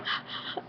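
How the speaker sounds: soft imitated gasp; quick voiceless breath of alarm; mock gasp; startled breath. Imitates everyone startled awake.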